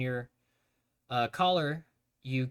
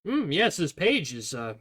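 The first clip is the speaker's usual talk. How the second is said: mock studious; 3 semitones higher than usual. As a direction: pretend to be deeply absorbed in a page. Panicked fake reading to avoid eyes.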